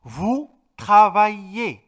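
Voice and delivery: travaillez said slowly with ail as ay; teacher modelling the French verb; French pronunciation demo. Shown as a demonstration. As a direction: stretch out travaillez so ail sounds like ay. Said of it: "A y L se pronuncia ay".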